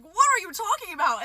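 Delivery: high-pitched retold disbelief; freaking out. Demanding answers from friends, high freaked-out question. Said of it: "So I'm freaking out".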